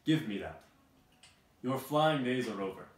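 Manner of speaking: loud, harsh snatching yell; guard bellowing at the witch; shouting guard. Acted. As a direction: tear the broom away with a roar.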